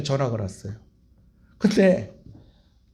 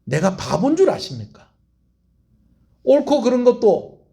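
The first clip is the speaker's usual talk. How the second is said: indignant cult member; 3 semitones higher, 3 dB louder than usual. Retold or imitated. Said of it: "빠지고 나서 하는 말이 뭔지 아세요?".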